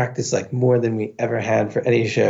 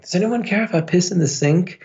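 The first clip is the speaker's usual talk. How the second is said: put-on tag drunken call-out; 8 semitones higher than usual. Drunk, calling out to bathroom.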